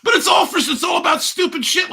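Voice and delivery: high, loud laughing shrieks; shrieking with laughter at the joke; hysterical laughing. Real, not acted. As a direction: crack up and squeal the words.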